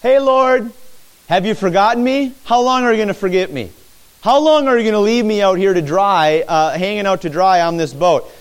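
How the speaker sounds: pleading disciples. Acted. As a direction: plead like a man left adrift. Preacher voices disciples' plea to Lord.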